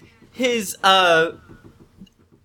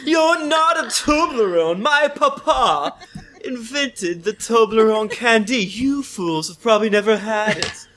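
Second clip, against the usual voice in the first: haughty heir; 4 semitones higher than usual. Acted. Heir to party, higher snooty boast with laughs. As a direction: look down on the fools. In-character boast about papa.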